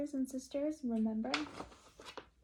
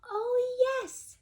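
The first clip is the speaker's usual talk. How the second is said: high, loud eager oh; 4 dB louder than usual. Acted. Kristen answering her mother, high and eager. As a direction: jump at the chance. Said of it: "said Kristen".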